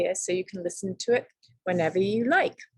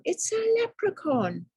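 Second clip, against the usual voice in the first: excited scheming. Acted. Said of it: "thought Tom".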